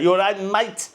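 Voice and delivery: high-pitched imitation of a foreigner's Manc accent; imitated Manc accent attempt. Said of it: "to try and do a Manc accent".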